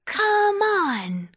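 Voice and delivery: high, loud rallying call; excited storybook summons. A narrator's reading. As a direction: holler it high and stretch it out. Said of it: "called Pumpkin".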